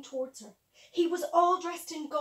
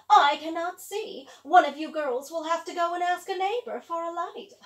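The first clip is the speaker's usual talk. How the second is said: wicked stepmother; 3 semitones higher, 9 dB louder than usual. Acted. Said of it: "said the stepmother".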